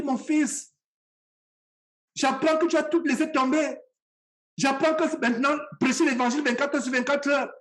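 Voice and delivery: gentle reproach, lightly acted; mildly imitated gentle, even-toned pleading; imitated soft-voiced mother. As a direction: voice a mother's sweet, monotone complaint. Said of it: "c'est cette voix douce".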